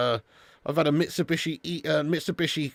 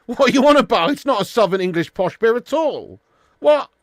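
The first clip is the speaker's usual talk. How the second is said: laughing, louder and higher in disbelief; 7 semitones higher, 7 dB louder than usual. Real, not acted. Streamer laughing off a viewer's posh beer claim, loud amused disbelief. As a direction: scoff through a laugh at the viewer.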